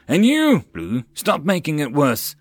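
sharp high loud scold, then easing; scolding yell. A narrator's reading. Rider scolding the other dragon, sharp yell. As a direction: snap at the snickering dragon. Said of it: "Stamford yelled".

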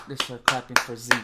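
rally everyone to applaud; excited cheer. Real, not acted. Cheering a player's new contract.

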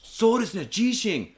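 lightly voiced calm Japanese man; mild, nodding understanding; imitating Japanese driver. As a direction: driver calmly realizing it's an earthquake. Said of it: "He's like".

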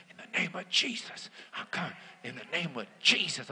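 very soft, low muttered prayer; whispered-soft name of Jesus; under his breath. Retold or imitated. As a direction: pray it barely aloud as you walk. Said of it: "underneath my breath".

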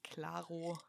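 a soft unvoiced klaro; whispered second Klaro. Real, not acted. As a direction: whisper it as an echo.

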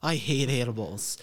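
ordinary talk

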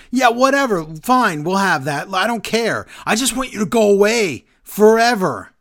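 dismissive Reigns. Retold or imitated. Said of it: "And Reigns goes".

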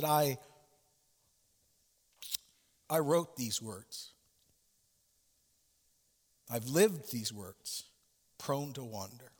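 slow, a touch tearful and halting; close to tears. Acted. Robinson admits his failing, slow and a touch tearful. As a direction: hold back tears, slowly. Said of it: "As tears brimmed in his eyes".

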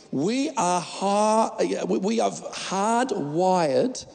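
a slip into a South African accent; South African vowels creeping in. Real, not acted. Preacher slipping into South African. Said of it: "I nearly went South African on you".

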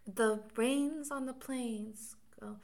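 put-on slow, drawn-out elocution-lesson English accent; mocking a posh English accent from My Fair Lady. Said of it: "My Fair Lady".

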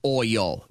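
"Oil" split into two syllables, OY-ul. Shown as a demonstration. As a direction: say "Oil" as two distinct beats. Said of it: "That's two syllables".

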